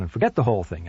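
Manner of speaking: ordinary delivery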